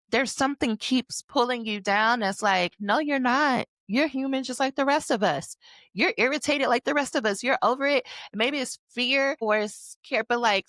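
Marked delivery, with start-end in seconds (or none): 2.8-8.1 higher scolding inner voice. Acted.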